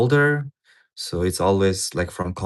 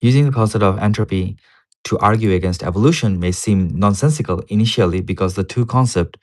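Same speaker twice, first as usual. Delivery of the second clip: louder, emphatic reading of an academic paper; reading aloud; 6 dB louder than usual. Real, not acted. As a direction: read the paper out firmly.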